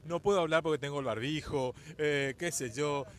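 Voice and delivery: loud, teasing imitation of someone dodging questions; mock reluctant interviewee. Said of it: "mirá cómo habla así todo".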